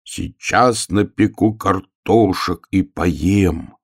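slow, drawn-out recital; poetry recitation. Acted. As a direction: recite it slowly, like a great poet's verse. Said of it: "Так вот он писал". (медленно, нараспев, как стихи)

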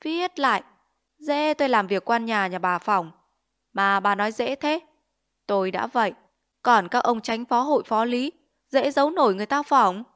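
mock her words back at her with contempt; scowling parody of a widow's plea; mocking mimicry. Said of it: "Nó cau mặt nhại".

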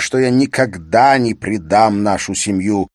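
insistent husband. Acted.

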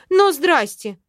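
loud outraged retort; indignant. Acted. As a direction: bristle at being suspected. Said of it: "возмутилась я".

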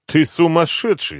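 high, loud rattled outburst; nervous general. Acted. General panics at the colonel, high and loud. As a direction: lose his nerve. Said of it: "занервничал генерал".

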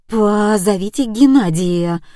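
plain reading voice

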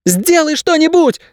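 very high, drawn-out desperate cry; acted scream of irritation, pleading and despair; desperate yell. A narrator's reading. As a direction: yell it as if the voice is about to break. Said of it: "срывающимся голосом заорала Кейса".

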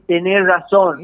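slow, lightly acted relief; sigh of relief. Passenger relieved to agree with the driver, lightly acted relief. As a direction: agree slowly, as if let off the hook. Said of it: "con ese suspiro de alivio".

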